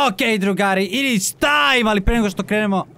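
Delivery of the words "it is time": very slow, drawn-out dramatic announcement; slow trailer voice; epic announcer. Pretend. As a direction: stretch it like a movie trailer.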